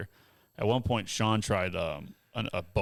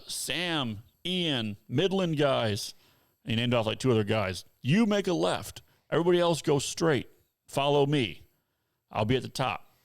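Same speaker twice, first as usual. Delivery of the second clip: higher, slow call of names over a loudspeaker; announcing on the PA; 4 semitones higher than usual. Retold or imitated. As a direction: read the names out like a trail guide on the PA. Guide on the PA.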